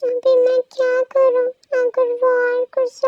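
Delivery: a lightly voiced scolding friend. Second woman character voiced.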